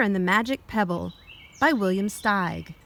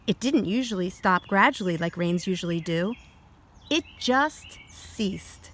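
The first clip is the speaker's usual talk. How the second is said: put-on reading to children. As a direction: clear storybook read-aloud. Reads picture book aloud.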